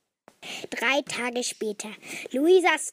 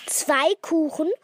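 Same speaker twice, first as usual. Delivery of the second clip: high, louder incredulous question; disbelieving; 7 semitones higher, 6 dB louder than usual. A narrator's reading. Birthday girl seeing two cakes, disbelieving. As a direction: ask it as if you can't believe it. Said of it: "fragte Luisa ungläubig".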